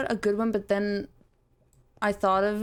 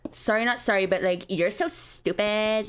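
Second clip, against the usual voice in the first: hammed-up valley sass; sassy fangirl. Shown as a demonstration. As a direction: demonstrate a mock mean-girl line. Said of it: "You just gotta say".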